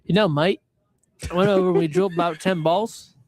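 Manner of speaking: a weak, hammed-up Australian accent; a clumsy Aussie bloke impression, Australian accent barely there; mock Australian accent, half-hearted; bad Australian accent. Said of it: "Could be the worst Australian accent I've ever heard".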